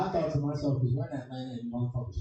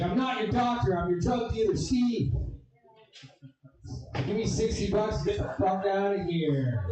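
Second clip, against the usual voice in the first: high cartoonish dealer voice; hammed-up dealer brushing him off; a put-on doctor who is really the dealer; mock drug dealer; 6 semitones higher than usual.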